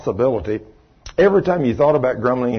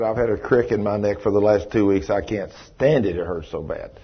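pained complaint; 4 semitones lower, 4 dB quieter than usual. Retold or imitated. Woman retelling her neck pain.

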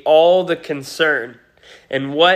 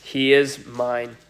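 calm assurance; slower than usual. Retold or imitated. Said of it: "He simply says".

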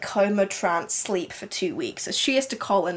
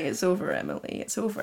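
hushed, much softer than usual talk; retold whisper; 2 semitones lower, 7 dB quieter than usual. Husband whispers to his wife that it's over, hushed. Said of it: "Walter whispers to Emily".

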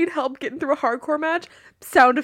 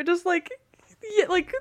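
ordinary delivery

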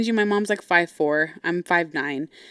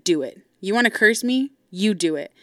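firm dare with a rising question between; retold challenge. Daughter dares mom to curse her, challenging. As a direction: re-enact daring her to go ahead. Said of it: "I looked at her and I challenged her".

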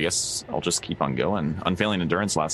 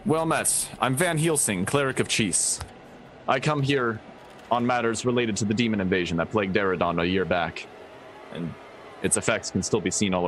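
lightly voiced cleric, higher at first; cleric introducing himself; 4 semitones higher than usual. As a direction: announce yourself formally to a knight, starting high. Player speaks as cleric Van Helsing.

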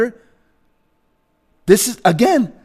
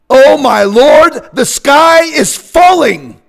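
mock panic; 4 semitones higher, 4 dB louder, slower than usual. Mocking alarmist media.

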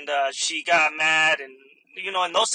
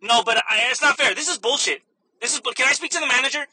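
higher, louder complaining customer; mock indignant; 6 semitones higher, 5 dB louder than usual. Customer complains to the cashier about bag charges, mock indignant. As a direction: imitate an outraged customer protesting. Acted customer demanding manager.

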